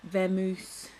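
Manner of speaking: punched-up pun on "vamoose"; punning stress. Shown as a demonstration. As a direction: hit "vamoose" hard as a moose pun. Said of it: "Lots of Moose puns".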